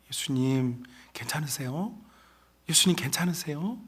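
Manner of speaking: soft, sweet mock concern; devil comforting. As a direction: coax him gently like a false friend. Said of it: "라고 하면서 위로해 주어요". (달콤하게 위로하는 마귀 목소리)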